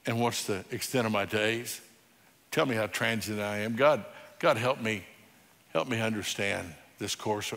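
low, soft reading of a prayer psalm; hushed psalm reading. Acted. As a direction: read it like a quiet confession to God.

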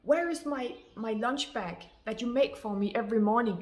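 huffy, mock-indignant demand for his lunch bag; demanding husband. Husband at breakfast demanding his lunch bag, mock indignant and loud. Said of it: "this guy stood up and he went".

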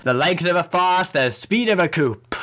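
lightly put-on, lilting character voice; game character proclamation. Streamer reading garbled game dialogue, lightly hammed-up character voice. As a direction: declaim it with big rises and falls.

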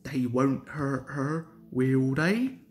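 a touch of worry; anxious. Acted. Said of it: "asked Duck anxiously".

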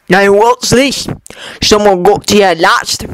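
put-on old warrior amused at his king's braid; Dwalin's voice. Dwalin teases his king about the braid, lightly voiced.

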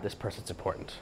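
hushed, impressed aside; awed whisper. Retold or imitated. Bar patrons murmuring to each other in an awed whisper. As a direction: breathe it like a secret.

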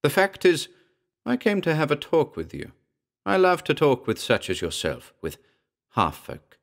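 reply as a metallic-sounding spirit; high, metallic voice of an unseen sprite. A narrator's reading. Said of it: "The metallic voice replied".

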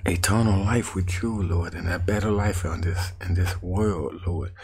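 begging the Lord for help; a desperate prayer, voice climbing; pleading prayer. Retold or imitated. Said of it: "I said".

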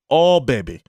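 imitated Russian-accented dismay; Russian doctor. Doctor seeing the infected left ear, light Russian accent. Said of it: "had a nice Russian doctor".

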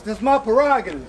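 a hint of a singer singing his hit; a singer impression. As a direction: slip into a light singer's voice for the line. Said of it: "a singer's voice".

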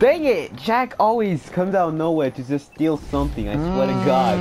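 real frustration mid-game; exasperated gamer outburst. Real, not acted. Griping about a stolen kill.

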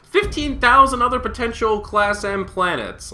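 high, slow, loud mock-excited announcer; hammed-up big-news voice; mock announcement. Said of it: "There's like".

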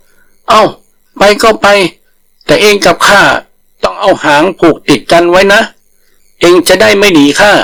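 a terrified tiger begging off; scared refusal. Acted. Tiger refusing to go with the langur, high and whiny.

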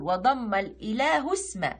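الإله اسم run together as ilaahu-sma, slowly; elided hamza demo. Shown as a demonstration. Teacher showing alif wasl, linked pronunciation. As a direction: glide from الإله into اسم without a glottal stop. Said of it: "نقول".

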